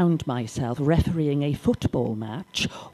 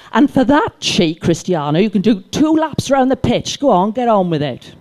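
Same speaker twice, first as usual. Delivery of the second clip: louder, higher mock-stern teacher telling him off; 4 semitones higher, 4 dB louder than usual. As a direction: hand out the punishment laps firmly. Teacher punishing cheeky pupil.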